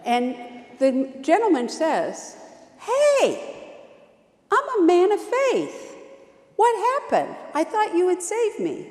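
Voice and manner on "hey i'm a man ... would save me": high, louder aggrieved complaint; cranky. Acted. Drowned man complaining to God, high and cranky. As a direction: gripe at God, feeling cheated. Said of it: "he is a little cranky with God".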